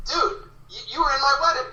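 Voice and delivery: high, certain voice of a stranger; insistent fan. Retold or imitated. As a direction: lightly play a dude sure he's right. Fan insisting on a false memory.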